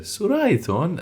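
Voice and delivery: scolding elder, pitched high up; sharp high warning in Assyrian; high mock scold. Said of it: "they'll turn around and go".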